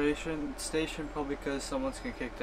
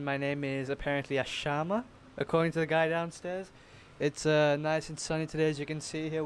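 weatherman, cheese left out; 3 dB louder than usual. Pretend. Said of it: "leave that cheese".

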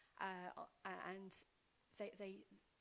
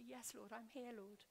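humbly; 6 dB quieter than usual. Retold or imitated. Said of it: "humbly and say".

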